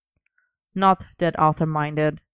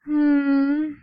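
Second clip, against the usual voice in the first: happy hum; 9 semitones higher than usual. Acted. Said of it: "sighed happily".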